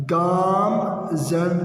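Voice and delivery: گام زن in two separate parts, "gaam, zan"; correct pronunciation. Shown as a demonstration. Teacher modelling the fourth word, correct pronunciation. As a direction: hold the long aa of گام, pause, then زن. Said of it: "درست تلفظ".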